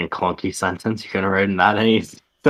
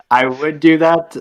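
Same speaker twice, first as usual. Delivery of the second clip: high raspy Palpatine sneer; 6 semitones higher, 5 dB louder than usual. Acted. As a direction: hiss it out like Palpatine. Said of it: "I'm killing this Palpatine voice".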